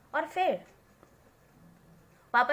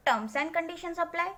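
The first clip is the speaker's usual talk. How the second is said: mock legal disclaimer; 6 semitones higher, much slower than usual. Chintu mocks grandpa's conditions.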